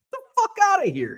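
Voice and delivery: sharp high mock yell; throwing the dealer out of the show; retold dismissal. To the dealer, no longer welcome, angry dismissal.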